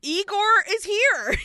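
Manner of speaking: high, loud, drawn-out arrival cry; mock-grand and excited; dramatic announcement. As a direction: herald the villain's entrance, stretched out.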